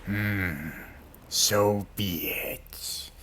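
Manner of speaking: slow, breathy whisper; whispering door. Acted. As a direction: let the door sigh it out. The talking door relents.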